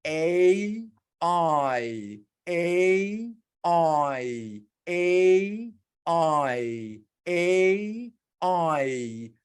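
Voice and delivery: teacher drilling A against I; contrast drill. Shown as a demonstration. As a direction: alternate A and I clearly. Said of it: "alternating vowels drill".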